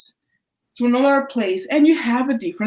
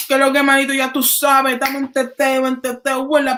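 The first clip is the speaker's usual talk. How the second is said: street Dominican slang; 3 semitones higher, faster than usual. Retold or imitated. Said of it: "that's ghetto".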